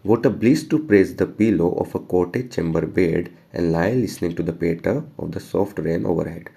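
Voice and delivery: slow, measured poetry reading; poem recitation. Acted. Teacher reading the poem to students, slow recitation. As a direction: read each word of the verse slowly to the class. Reads poem line to class.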